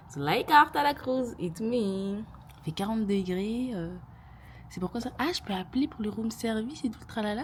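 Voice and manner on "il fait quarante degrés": slow, stretched-out complaint; drawn out. Real, not acted. Telling her viewers about the heat, drawn out slowly. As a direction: drag every word out. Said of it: "Regardez, il fait quarante degrés".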